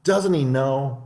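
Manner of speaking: high, slow, pleased mouse voice; sly mouse chuckling to itself; smug little mouse. Acted. Mouse mocks the fled fox.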